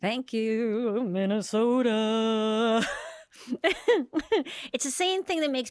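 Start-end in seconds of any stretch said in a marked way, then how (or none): 0.0-2.9 long drawn-out, slow thank-you; mock gratitude. Comedian thanks home state after being shamed, mock gratitude. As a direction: stretch out the sarcastic thanks, raised voice.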